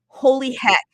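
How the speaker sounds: loud, high burst of amazement; excited exclamation. Real, not acted. Host exclaiming at the guest's domain idea. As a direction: blurt it out amazed.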